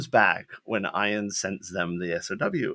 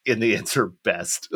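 laughing; 2 semitones lower than usual. Real, not acted. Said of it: "I hope you hear the sarcasm".

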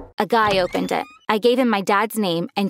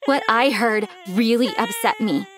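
tearful. Real, not acted. Narrator upset, crying heard.

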